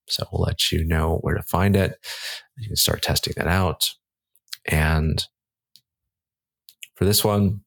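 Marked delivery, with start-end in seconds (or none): 4.7-7.6 catching breath mid-sentence; winded, breathing between words. Real, not acted. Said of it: "I'm kinda catching my breath here".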